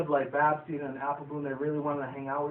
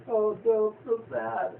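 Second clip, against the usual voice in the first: much higher, hammed-up sob voice; mock sadness; 7 semitones higher, 4 dB louder, much slower than usual. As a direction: overplay a pony's sorrow, tongue in cheek.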